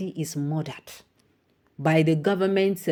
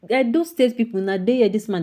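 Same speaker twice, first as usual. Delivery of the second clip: higher and louder, exasperated; indignant rant; 5 semitones higher, 5 dB louder than usual. Real, not acted. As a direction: lash out at them. Angry rant at state people.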